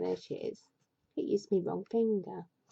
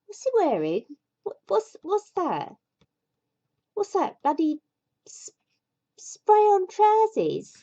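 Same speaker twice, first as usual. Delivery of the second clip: much higher and louder, slowing on the last words; incredulous outburst; 11 semitones higher, 5 dB louder than usual. Real, not acted. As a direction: gape at the picture in disbelief. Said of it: "incredulous at picture".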